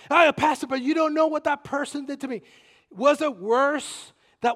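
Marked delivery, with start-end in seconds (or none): none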